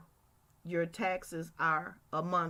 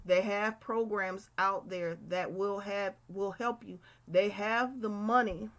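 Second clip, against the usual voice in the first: talking around chewing gum. Real, not acted. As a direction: speak with gum in your mouth. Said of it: "I have gum in my mouth".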